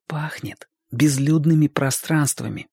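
slow, hushed whisper; unhurried, secretive whisper. A narrator's reading. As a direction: whisper it slowly, as if in wonder. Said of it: "прошептал Серёжка".

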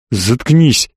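restrained order squeezed through the teeth; through clenched teeth. A narrator's reading. Slavik cuts Elli off mid-explanation, through clenched teeth. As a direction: force it out with contained anger. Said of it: "процедил Славик".

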